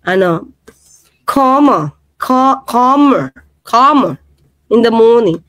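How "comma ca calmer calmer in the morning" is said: imitated British "calmer", slow and deliberate; mock British accent. Asking Ana about the British idiom, mock British accent. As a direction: draw out "calmer" with British vowels. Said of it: "Brit, Brit".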